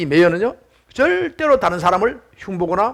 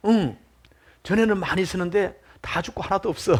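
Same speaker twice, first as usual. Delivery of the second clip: put-on softer, weak old man's reply; feeble, listless; 5 dB quieter than usual. Old man answers the pastor, feebly. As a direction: answer with little strength left. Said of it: "힘없는 목소리입니다".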